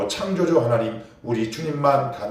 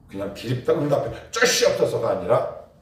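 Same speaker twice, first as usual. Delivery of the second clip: normal talking voice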